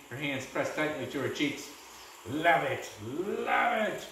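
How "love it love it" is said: calling out. A narrator's reading. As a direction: relish each repeat as a villain. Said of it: "called the Menace".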